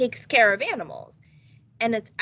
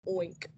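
pig oink; 4 semitones lower, 11 dB quieter than usual. A narrator's reading. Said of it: "George went".

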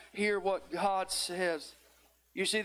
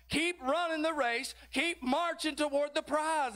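rising chant, climbing higher each plea; cheering crowd of witnesses, building; 4 semitones higher than usual. Acted. Witnesses cheer the church members on, building preaching cry. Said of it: "a cloud of witnesses rooting you on".

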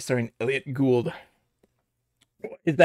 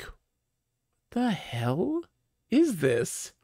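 higher, incredulous reaction; mock disbelief; 6 semitones higher, 4 dB quieter, much slower than usual. Streamer reacting to the rake-filled yard, mock baffled. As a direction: play baffled at the absurd ad. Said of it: "And I'm just like".

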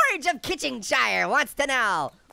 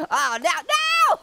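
slow dismayed; 7 semitones higher, 4 dB louder, much slower than usual. Real, not acted. Eaten in game.

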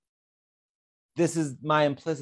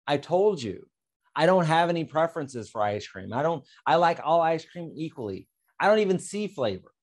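upset; 4 semitones higher than usual. Acted. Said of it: "And now I'm getting upset".

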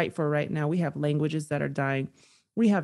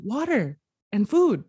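milder, less high re-enacted call; offering; 5 semitones higher than usual. Passerby handing over water and food, lifted offering voice. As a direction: hold out what was asked for, voice lifted a little. She presents the items to him.

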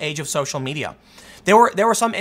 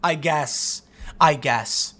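grudging; 3 semitones lower, much slower than usual. Retold or imitated. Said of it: "they look at Trump and they go".

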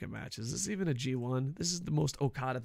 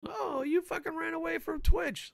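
higher, sneering troll voice; hammed-up troll jeer; mocking troll; 14 semitones higher than usual. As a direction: mimic a snide commenter. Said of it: "I'm getting tired of fucking D Ms".

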